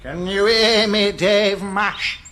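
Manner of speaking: spooky ghost voice. Acted. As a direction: moan it like a ghost. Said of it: "doing his spooky ghouly voice".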